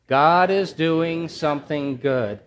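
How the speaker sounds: slow, drawn-out chant for the congregation to repeat; slow, emphatic congregational refrain; slow call and response. Shown as a demonstration. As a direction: lead the room through it slowly. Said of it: "I want you to say it with me".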